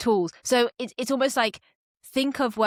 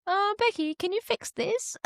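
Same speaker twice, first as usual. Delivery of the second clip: much higher, slower helpless plea; pleading; 12 semitones higher, slower than usual. Retold or imitated. Cohost pleading to Becky for help, high and helpless. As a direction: whine for help like a stuck beginner. Asking partner to fix code.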